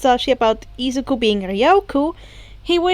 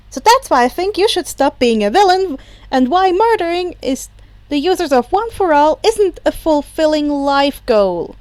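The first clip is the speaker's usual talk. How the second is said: put-on higher, eager boyish pleading; earnest young hero; 3 semitones higher than usual. Izuku earnest speech, higher.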